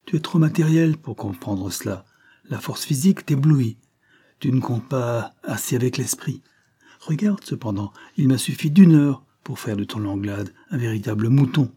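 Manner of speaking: warming to his argument, pitch lifting; a touch of rising self-assertion; growing animated. Acted. Policeman boasting of brains over brawn, increasingly animated. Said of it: "continue-t-il en s'animant".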